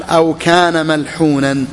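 reading the source text slowly and deliberately; slow text recital. Shown as a demonstration. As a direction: recite the quoted text, drawn out. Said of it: "قال".

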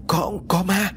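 high, stammering fright; a scared girl stuttering about a ghost; terrified stammer. Acted. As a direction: gasp it out in terror. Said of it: "sợ tới mặt cắt không còn giọt máu".

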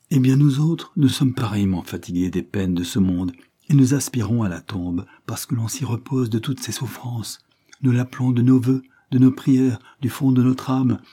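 a lightly dramatized longing for rest; world-weary governess. Acted.

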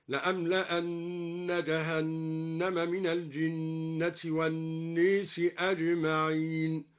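الناس recited with its alif leaned toward e, slow; recited with imala. Shown as a demonstration. Teacher recites al-Duri's imala of الناس, slow chant. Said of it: "وأمال الناس".

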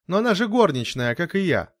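высоко и громче, с обидой; горничная возмущается, что её выгоняют; возмущённо. A narrator's reading. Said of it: "с негодованием воскликнула Мери". (возмущённо, на высоких нотах)

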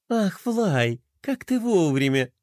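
lightly delighted, sweet greeting; smiling. A narrator's reading. Princess greeting a timely visitor, smiling. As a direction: welcome with an audible smile. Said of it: "улыбнулась Пинки".

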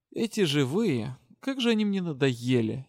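a touch of spite at the living; angry voice. Acted. Death spirit complains about the living, mildly angry. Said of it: "неожиданно злым голосом проговорила Дара".

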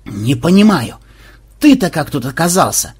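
a mock anguished wail. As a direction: cry out in disbelief. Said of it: "взвыл Банзай".

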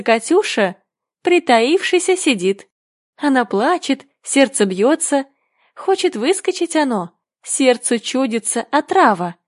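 put-on lilting children's verse recital; poem recitation. A narrator's reading. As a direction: recite it line by line like a learned poem.

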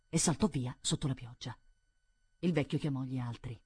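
plain reading voice

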